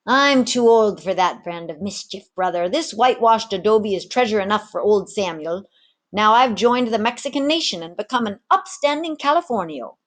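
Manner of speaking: a retired rogue content with his lot; easygoing old tavern keeper. Acted. Samuel turns Ginger down, lightly voiced old man.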